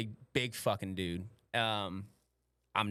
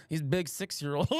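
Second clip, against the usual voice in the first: Russian lady; 4 semitones higher than usual. Acted. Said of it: "this Russian lady".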